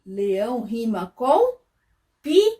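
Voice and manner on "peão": "peão" split into a high, loud PI and a long ÃO; syllable-by-syllable sounding out. Shown as a demonstration. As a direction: lift and punch the first syllable of "peão", then stretch the rest. Teacher sounds out rhyme word. ("peão" silabado, bem alto e esticado)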